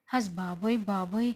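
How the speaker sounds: low, breathy dismayed "హస్ బాబోయ్", lightly voiced; a mother's alarmed oh my god; shocked gasp. Mother hearing the fight, lightly voiced dismay.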